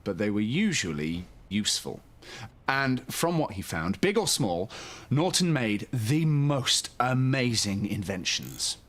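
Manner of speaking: gentle, lively storybook reading; bedtime story narration. A narrator's reading. Host reading a bedtime story to young children, soothing storyteller. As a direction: read it like a children's picture book at bedtime.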